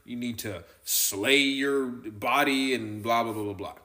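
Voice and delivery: a hint of a scolding revival preacher; lightly mock the finger-wagging altar call; mild hammed-up hellfire preacher; law voice. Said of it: "they're gonna hear the law voice".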